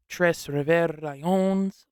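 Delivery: slowly voiced with a French accent. Shown as a demonstration. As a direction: say the team name slowly, the French way. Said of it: "that's my French accent".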